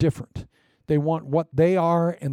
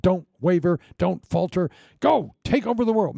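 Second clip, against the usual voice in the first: rallying encouragement; 3 semitones higher than usual. Pretend.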